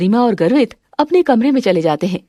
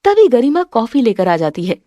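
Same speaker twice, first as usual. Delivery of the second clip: plain reading voice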